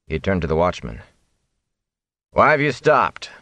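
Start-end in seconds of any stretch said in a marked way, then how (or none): 2.3-3.3 higher, sharp command; commanding Whitecloak. Acted. Whitecloak ordering watchmen back to work, sharp command.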